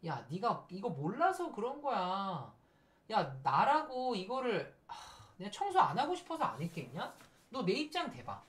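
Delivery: slow, drawn-out exasperated protest; acted indignant quarrel. Arguing over undone cleaning, mock exasperated. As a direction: argue back, mildly hammed-up.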